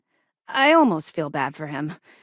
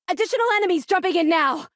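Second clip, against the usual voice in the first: high, urgent combat alert; urgent warning; 12 semitones higher than usual. Acted. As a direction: call the alarm out to the pilot.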